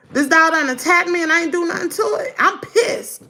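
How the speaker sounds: worked-up, high-pitched complaint; pissed-off storyteller reliving the attack; retold indignation.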